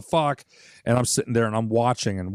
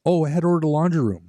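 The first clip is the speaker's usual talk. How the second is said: parent's voice; 5 semitones higher, faster than usual. Retold or imitated. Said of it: "we're both being told".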